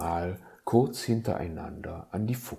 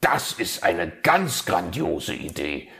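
delighted; 4 dB louder than usual. Acted. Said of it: "war der Fuchs begeistert".

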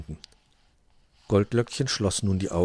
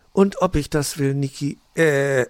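higher, louder happy answer, slowing at the slip; joyful yes; 6 semitones higher, 5 dB louder than usual. Acted. Grünäuglein accepting the proposal, loud and happy. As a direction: gush yes, then stumble on the name.

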